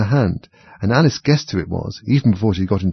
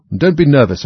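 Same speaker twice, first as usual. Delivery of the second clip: threatening king; 6 semitones higher, 7 dB louder than usual. A narrator's reading.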